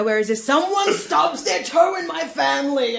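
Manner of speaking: big dramatic exclamation; loud and theatrical. Retold or imitated. Mock family drama.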